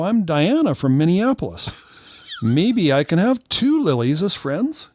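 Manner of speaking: high, singsong mock-innocent voice; Diana. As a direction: play naively delighted, pitched well up. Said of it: "I go".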